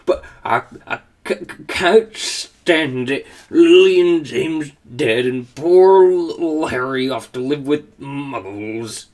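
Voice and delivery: slow, choked-up sobbing giant; tearful. Acted. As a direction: stammer through tears, slowly. Hagrid weeping after howl.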